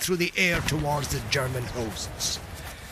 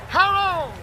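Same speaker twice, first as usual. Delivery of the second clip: ghostly cry; 8 semitones higher, slower than usual. Acted. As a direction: call out as a phantom bowman. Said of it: "heard the cry".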